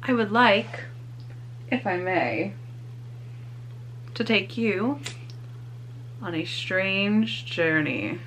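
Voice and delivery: slow, quiet ghoulish host voice; dark lord. Acted. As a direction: greet the foolish mortals like a haunted mansion host. Spooky haunted-house host intro.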